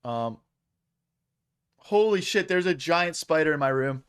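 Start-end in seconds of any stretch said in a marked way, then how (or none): 1.8-4.0 startled. Real, not acted. Spots spider mid-stream.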